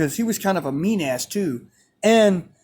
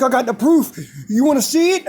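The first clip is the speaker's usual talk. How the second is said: raised-pitch imitation of a confrontational coach; heated insistence; 5 semitones higher, faster than usual. Coach claiming proof against student, heated mock challenge. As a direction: push the retold challenge at them.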